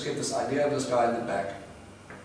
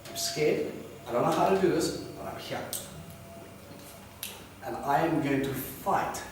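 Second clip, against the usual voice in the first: hushed prayer; 3 semitones higher, 5 dB quieter than usual. Retold or imitated. Quiet voiced prayer.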